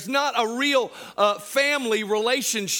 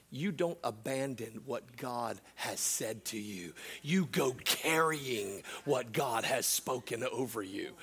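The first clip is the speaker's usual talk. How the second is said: low, soft and solemn; hushed preaching; 8 semitones lower, 10 dB quieter than usual. Real, not acted. Preacher telling the church to hold God's word, hushed and solemn. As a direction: drop right down, weighty and quiet.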